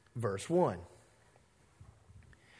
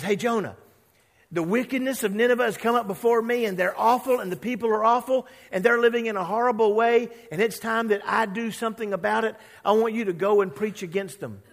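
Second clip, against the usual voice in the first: louder, quicker commanding voice; voicing God; 6 semitones higher, 6 dB louder, faster than usual. God orders Jonah to preach against Nineveh, loud and urgent. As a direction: announce the judgement on Nineveh, urgently. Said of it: "and God says".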